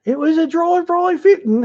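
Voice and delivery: shaky attempt at a high granny voice; Mrs Doubtfire impression. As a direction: pitch it way up like a nanny in costume. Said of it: "haven't heard Missus Doubtfire for a while".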